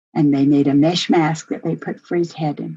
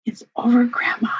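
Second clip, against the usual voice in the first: higher, brighter burst of relief; a boy breaking the good news to grandma; joyful cry that it's finally over; excited relief; 6 semitones higher than usual. Retold or imitated. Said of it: "He walked in the door and said".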